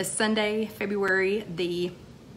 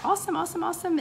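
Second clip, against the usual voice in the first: excited cheer; 10 semitones higher, much faster than usual. Real, not acted. Cheering viewer rejoining program.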